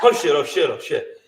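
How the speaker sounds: rapid-fire panicky repetition, imitated; mock hyperventilating. Frozen in bed with the ghost, mock hyperventilating. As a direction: act out overbreathing on each curse. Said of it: "Well, actually hyperventilating".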